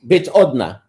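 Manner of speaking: slow, deliberate Russian, word by word; halting recalled Russian. Shown as a demonstration. Man recalls his Russian come-on line for a friend, slow and halting. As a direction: feel out each Russian word, pausing between them. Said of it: "Let me just try to remember how".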